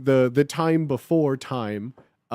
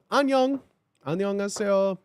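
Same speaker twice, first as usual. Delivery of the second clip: Lady Rainicorn voice; 3 semitones higher than usual. Pretend. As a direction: chirp it like a cute cartoon unicorn. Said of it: "Lady Rainicorn".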